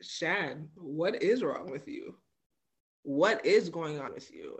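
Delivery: calm concern. Retold or imitated. Mother to herself after daughter's comeback, calm and sincere. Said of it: "and I said".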